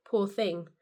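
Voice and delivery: slow, pitying sigh of a stranger; lightly mocking pity. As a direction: imitate people pitying her. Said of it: "they think".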